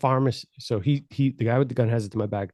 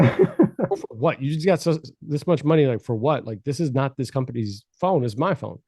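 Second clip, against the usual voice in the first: mock angry; 2 semitones higher than usual. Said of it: "And I got mad".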